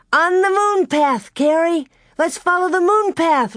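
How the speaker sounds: high, loud, delighted call across the ice; excited cry. A narrator's reading. Laura calling Carrie along the moon path, excited cry. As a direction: call out to her sister in joy. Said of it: "Laura cried".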